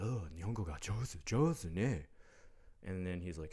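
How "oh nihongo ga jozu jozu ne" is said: higher, sing-song imitation of an old officer cooing; mock the old cop's gushing compliment; the old cop patronizing him about his Japanese. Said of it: "this patronizing".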